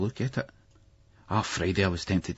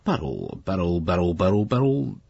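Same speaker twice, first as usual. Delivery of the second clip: musing teacher. A narrator's reading. Headmaster toying with the boy's name, menacing. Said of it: "He looks at Billy and goes".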